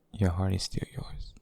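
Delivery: tender whisper; intimate whisper. Acted. Tender confession to a lover.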